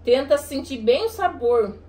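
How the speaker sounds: slow. Shown as a demonstration. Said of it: "vê se tu identifica".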